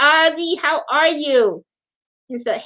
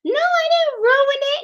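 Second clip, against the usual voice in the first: imitating friend; 14 semitones higher than usual. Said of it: "she was like".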